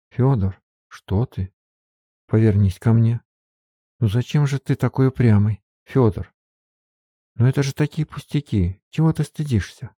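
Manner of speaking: Sofia's voice, alarmed. A narrator's reading. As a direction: scold him out of your own fear, voice up high. Софья уговаривает Фёдора. (голос Софьи, высоко, встревоженно и сердито)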